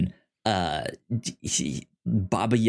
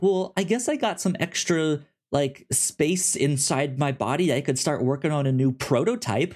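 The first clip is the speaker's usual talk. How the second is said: high, breezy musing voice; robot wife musing; 5 semitones higher than usual. Retold or imitated. Robot wife muses about a new prototype, lightly voiced and higher. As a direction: treat pregnancy like an engineering project. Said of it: "the wife is like".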